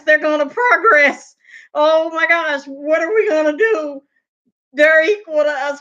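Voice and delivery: mock panicked white folks. Speaker mocking white people seeing Black Wall Street thrive, hammed-up panic. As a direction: play the oppressors freaking out, voice climbing. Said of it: "and y'all said".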